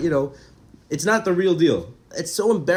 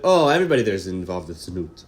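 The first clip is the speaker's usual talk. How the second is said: lower, scornful mock voice of the onlookers; scoffing gentiles; 9 semitones lower than usual. Gentiles in the Temple mocking the Jews, low scornful voice. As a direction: drop the voice low and sneer it out. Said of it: "They said".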